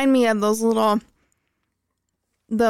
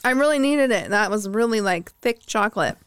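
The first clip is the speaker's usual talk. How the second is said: chewing while talking; 4 semitones higher than usual. Real, not acted. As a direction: mouth full of chocolate. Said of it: "You chewing it now?".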